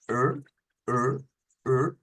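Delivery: er with the tongue curled back; English-style R. Shown as a demonstration. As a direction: retroflex "er", each said separately. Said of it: "La lengua así como para atrás".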